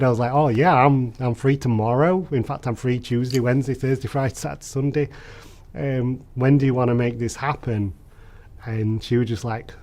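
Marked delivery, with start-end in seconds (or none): 0.3-7.9 mildly giddy, slightly raised pitch; retold giddy excitement. Accepting Beth's drink invitation, mock giddy and excited. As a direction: eagerly rattle off every free day, lightly acted. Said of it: "so giddy and, and so excited".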